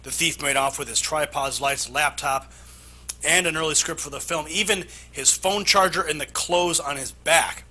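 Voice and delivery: measured anchor read with punched key words; scripted news-story delivery. Acted.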